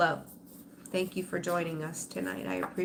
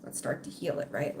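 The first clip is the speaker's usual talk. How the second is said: breathy whisper, softer; whispered plea; 6 semitones lower, 5 dB quieter than usual. Real, not acted. Urging broken viewers to heal, whispered. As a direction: urge them gently, almost no voice. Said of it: "walking around with trust issues".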